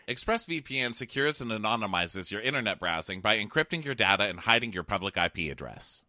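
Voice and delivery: scripted, persuasive sponsor read; podcast ad read. Real, not acted. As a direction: sell it with evenly stressed copy.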